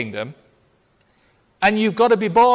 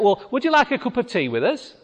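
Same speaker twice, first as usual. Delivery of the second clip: polite teatime offer; 5 semitones higher, faster than usual. Retold or imitated. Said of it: "You would expect".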